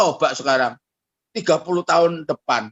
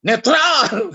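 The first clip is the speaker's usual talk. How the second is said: mock prayer; 3 semitones higher, 4 dB louder, much slower than usual. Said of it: "saudara bilang".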